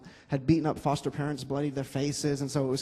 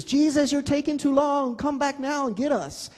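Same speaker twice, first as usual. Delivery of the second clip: put-on high, childlike demand, much higher than his voice; impatient little girl; 11 semitones higher than usual. Little Destiny shaking her fist at the car window, high childish impatience. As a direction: play a five-year-old scolding Jesus from the car. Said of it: "shakes her fist at the window of the car and says".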